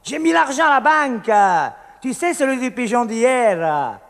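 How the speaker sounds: lightly shouted entrance; mild mock shout. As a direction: call out the news across the room. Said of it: "entré en criant".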